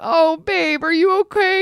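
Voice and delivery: high, cooing worry; retold concern. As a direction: act out fussing over a sick partner. Retold concern for sick husband.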